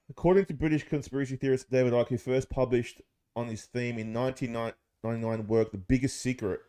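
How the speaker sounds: slow, deliberate read-aloud of an article. Acted. To his mates, reading David Icke's theory aloud, slow and deliberate. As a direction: read it out like a text, mildly dramatic.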